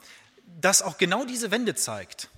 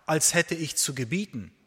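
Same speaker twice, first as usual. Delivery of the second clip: poem recital; 3 dB louder than usual. Acted. Preacher reciting a prison poem to his church, solemn and measured. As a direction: recite each question gravely to the congregation.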